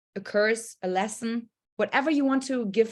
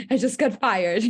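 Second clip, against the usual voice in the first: laughing; 4 dB louder than usual. Retold or imitated. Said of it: "And why are you laughing?".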